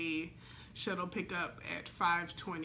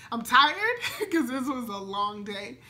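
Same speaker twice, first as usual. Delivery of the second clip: laughing tired; 4 semitones higher, 6 dB louder than usual. Real, not acted. Happy tearful rambling.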